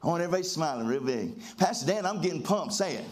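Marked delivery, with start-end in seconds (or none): 1.6-3.0 pumped-up declaration. Shown as a demonstration. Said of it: "I'm trying to get you excited".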